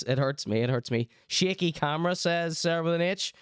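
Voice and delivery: usual speaking voice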